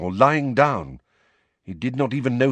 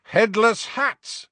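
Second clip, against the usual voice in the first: high, drawn-out hawker's cry; shouted; 13 semitones higher, 4 dB louder, slower than usual. A narrator's reading. George advertises joke hats to students, shouted. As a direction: call it out like a showman. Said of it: "shouted George".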